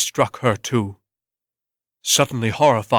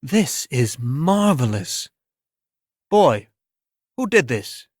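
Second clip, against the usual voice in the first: awed art critic; 3 semitones higher than usual. Acted. Critic questions Bert.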